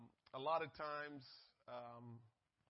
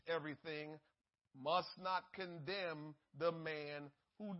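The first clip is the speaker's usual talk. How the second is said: slow, deliberate reading of scripture; 3 dB louder than usual. Acted. Preacher reading Romans to the congregation, slow and deliberate. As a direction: weigh every phrase out to the church. Reads scripture aloud, slowly.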